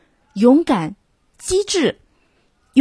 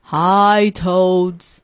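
bellowed. A narrator's reading. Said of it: "bellowed the monster".

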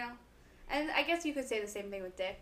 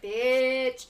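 a loud, snapped "Bitch" thrown at someone; sharp insult; 2 semitones higher, 8 dB louder than usual. Shown as a demonstration. Friend demos one way to say it, hurling "Bitch" loudly. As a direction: spit "Bitch" out as a hostile insult. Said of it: "Her tone changed three different times".

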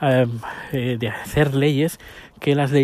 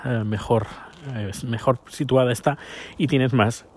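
short of breath; 4 dB quieter than usual. Real, not acted. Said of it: "que me ahogo".

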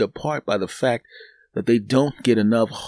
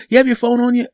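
high teller voice; 13 semitones higher, 5 dB louder, faster than usual. Retold or imitated. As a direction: play the chirpy teller. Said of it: "You know".

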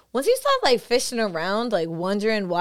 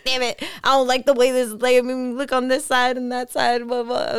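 vain fretting; 2 semitones higher, 4 dB louder than usual. Retold or imitated. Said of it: "I'm like".

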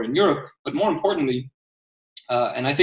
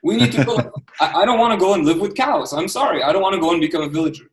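raised, higher, heated protest; real heated outburst about moving to villages; emotional; 4 semitones higher, 3 dB louder than usual. Real, not acted. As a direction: voice climbing with real frustration. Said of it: "Sorry I'm emotional about this".

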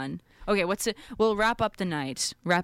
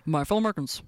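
president impression; 2 semitones lower, much faster than usual. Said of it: "try to hit all the presidents".

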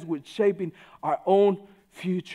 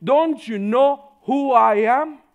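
indignant quote; 3 semitones higher, 7 dB louder than usual. Retold or imitated. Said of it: "the underlying question to that is".

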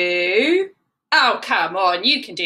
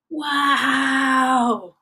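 wow; 3 semitones higher than usual. Acted. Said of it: "said Arya".

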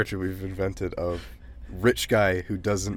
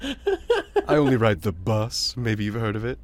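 posh voice. Pretend. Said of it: "posh voice".

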